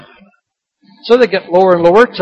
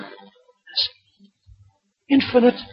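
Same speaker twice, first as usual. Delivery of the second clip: hushed awe; 8 dB quieter, slower than usual. Acted. Awed list of God's attributes.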